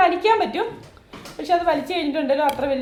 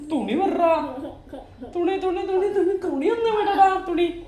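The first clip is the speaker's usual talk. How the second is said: sing-song pleading, rising higher; playful coaxing; 3 semitones higher than usual. Real, not acted. Playfully telling child to release cloth. (കുഞ്ഞിനോട് കൊഞ്ചി കെഞ്ചി)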